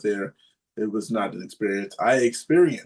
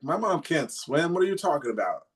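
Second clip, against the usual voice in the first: higher-pitched, stretched-out disbelief; retold incredulous protest; 6 semitones higher than usual. Son retelling his protest to dad about mom, incredulous. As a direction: replay your baffled objection to a crazy order.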